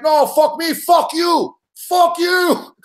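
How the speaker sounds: shouting insults, climbing in pitch; defiant yell. Retold or imitated. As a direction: yell it back over the fence. Yelling back over the fence.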